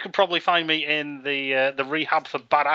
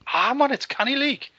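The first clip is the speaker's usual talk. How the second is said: put-on Geordie accent; 9 semitones higher than usual. Repeats mock Geordie catchphrase.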